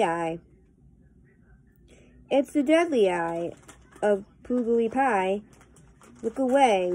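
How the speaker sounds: lilting, rhythmic verse recitation; poem reading. Acted. Vlogger reading a humorous poem to viewers, lilting recitation. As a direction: read the rhyme out with a bouncing beat. Reads poems aloud to viewers.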